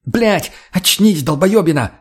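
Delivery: high, drawn-out angry yell; shouting. A narrator's reading. Tonya yells at her frozen accomplice to snap out of it, shouting. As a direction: shout to jolt someone awake. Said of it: "прокричала Тоня".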